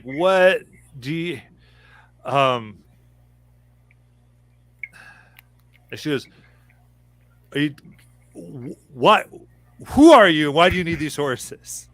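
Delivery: tired elven stablekeeper brushing off strangers; unimpressed old woman. Acted. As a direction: sceptical stablehand pushing back. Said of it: "she looks and just is like".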